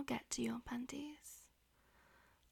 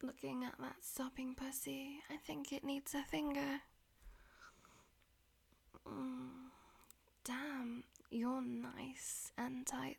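whispering. Acted. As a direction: whisper it close to the ear. Whispered throughout.

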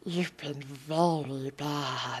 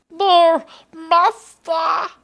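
high shout; 11 semitones higher, 13 dB louder, slower than usual. Acted. Sudden high cry.

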